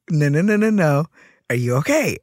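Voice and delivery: high, loud, rapid-fire no's; insistent manager. Retold or imitated. Manager rejects worker's brief answer, insistent. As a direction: act out a manager pressing for an answer.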